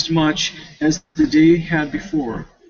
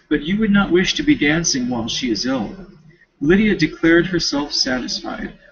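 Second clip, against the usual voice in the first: reading a classic novel aloud; story narration. Acted. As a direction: read the chapter out at an even pace. Reads novel chapter aloud.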